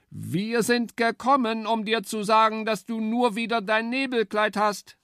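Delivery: eager high-pitched woodpecker. A narrator's reading. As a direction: chirp it out like a keen woodpecker. Woodpecker calls to boar.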